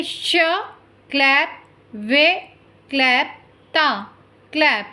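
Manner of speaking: श वे ता split into syllables with a clap between. Shown as a demonstration. Teacher showing pupils how to clap syllables. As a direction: break श्वेता into syllables, pausing at each clap. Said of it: "तो हम करेंगे".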